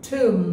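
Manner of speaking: tomb said as TOOM, no b; silent b. Shown as a demonstration. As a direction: say tomb to rhyme with room. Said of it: "বি এর উচ্চারণ হবে না". (tomb-এ বি অনুচ্চারিত, টুম)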